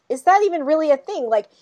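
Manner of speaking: high, incredulous quizzing; imitating friends. Teasing friends quizzing Jessica, high and incredulous. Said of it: "they were like".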